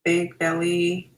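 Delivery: calm, measured meditation guiding with long pauses; guided meditation. Acted. Facilitator leads attendees through breathing, guided meditation.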